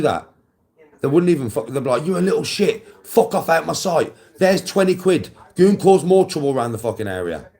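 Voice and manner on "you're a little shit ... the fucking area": higher, louder dismissive parent; mock careless parent. Imitating parents who shoo their kid away, mock dismissive. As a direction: brush the kid off, hammed up.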